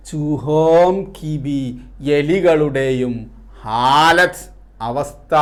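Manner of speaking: measured recital with drawn-out key words; poem recitation. Acted. Teacher reciting a Hindi poem with Malayalam meanings, slow poem recitation.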